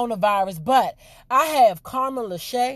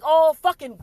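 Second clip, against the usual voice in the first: mock Andrew cursing; 4 semitones higher than usual. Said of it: "Why you had to be like".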